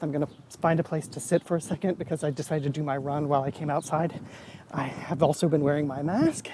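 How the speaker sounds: a bit winded after a run, quick and soft; out of breath. Real, not acted. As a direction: talk while still catching your breath from running. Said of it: "Sorry, I'm out of breath".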